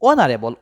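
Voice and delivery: low falling answer, অনারেবল with silent h; correct pronunciation. Shown as a demonstration. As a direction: model অনারেবল as "onarebol", no h. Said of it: "ও উচ্চারণ হইতেছে".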